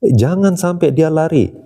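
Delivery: retold crow yelling after the fleeing king, a mock yell; shouting after him. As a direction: call out to stop the escape. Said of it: "Dia teriak apa?".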